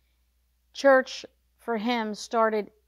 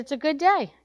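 incredulous echo; 4 semitones higher, 6 dB louder than usual. Retold or imitated. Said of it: "I said".

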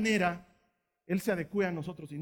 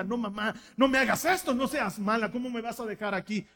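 pleading daughter; 2 semitones higher, 4 dB louder than usual. Retold or imitated. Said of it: "Y ella chilla, grita".

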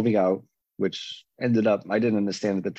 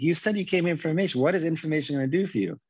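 higher-pitched retold telling-off, no real shout; badgering in a raised pitch, mildly mock-yelled; mock yelling; 7 semitones higher, faster than usual. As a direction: imitate a pushy man pressing his point. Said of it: "He's, like, yelling at me".

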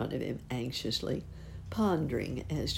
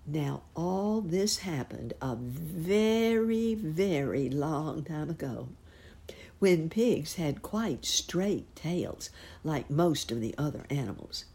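slow, hushed once-upon-a-time telling; slow storytelling; 2 semitones higher, slower than usual. A narrator's reading. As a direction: draw the listener in, slowly. Storyteller slows down.

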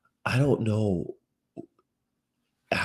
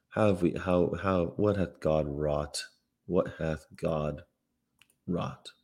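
mock lament; 5 semitones lower, 5 dB quieter, slower than usual. Mock lament over humanity.

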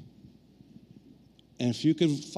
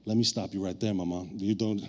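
mock indignant; 5 semitones lower than usual. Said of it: "I was like".

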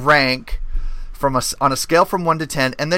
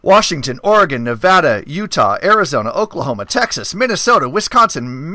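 all in one breath; 3 semitones higher than usual. Real, not acted. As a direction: rattle off the list without pausing for air. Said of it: "let me see if I can do this without taking a breath".

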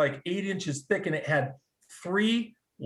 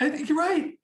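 real laugh through the words, much higher; laughing agreement, pitched high and louder; 13 semitones higher, 4 dB louder than usual. Real, not acted. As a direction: giggle while agreeing. Laughing at friend's joke.

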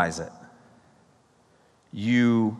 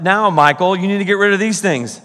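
mock personal rebuke; 7 semitones higher, 7 dB louder than usual. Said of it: "It's like".

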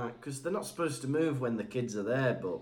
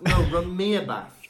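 louder demanding order; insist, getting louder; mock indignant master; insistent; 2 semitones higher, 5 dB louder than usual. Acted quarrel with house-elf.

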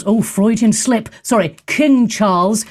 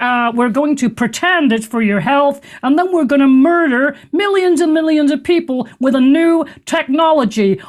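lightly voiced puppet-frog; a hint of Muppet frog; mock Kermit voice, only lightly; Kermit-like Bill Gates; 3 semitones higher than usual. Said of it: "he sounds like Kermit the Frog".

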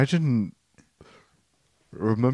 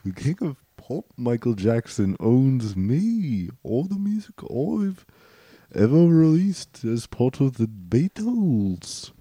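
mock judge. Judge ruling on which Michael Jackson is meant, mock judge. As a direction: play a ceremonious judge, stretching key words.

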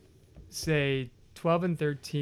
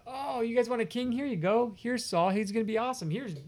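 sarcastic God; 6 semitones higher, faster than usual. Retold or imitated. Mock God handing them Saul.

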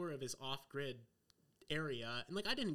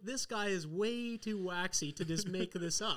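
amazed disbelief; 6 semitones higher, 4 dB louder, slower than usual. Retold or imitated. Retelling his own amazed thought.

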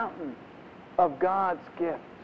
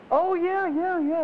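very high, louder, breezy yeahs; overeager brush-off; 13 semitones higher, 4 dB louder, slower than usual. Retold or imitated. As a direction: toss off a hasty fake yes. Gift receiver brushing off question.

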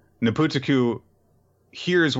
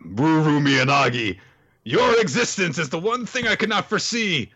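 lightly voiced villain; 5 semitones higher than usual. Villain lecturing the girl about friendship, lightly voiced. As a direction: declaim it like a lightly played villain. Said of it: "He's like".

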